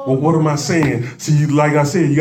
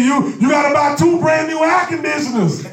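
enemy voice; 8 semitones higher than usual. Retold or imitated. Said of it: "like the enemy came to me".

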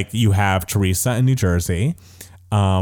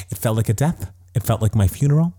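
mock serious. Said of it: "she's so serious".

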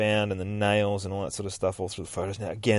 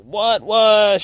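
high, louder double what; mock startled disbelief, pitched up; 11 semitones higher, 9 dB louder than usual. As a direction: jolt at the idea. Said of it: "It's like".

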